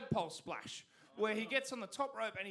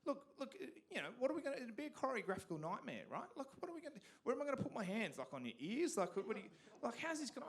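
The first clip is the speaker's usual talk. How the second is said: pleading refusal; 5 semitones higher, faster than usual. Retold or imitated. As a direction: fret aloud about dancing with a stranger. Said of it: "And I'm like".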